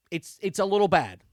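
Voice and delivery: emphatic understatement. Real, not acted. Emphatic verdict, then repeated quietly.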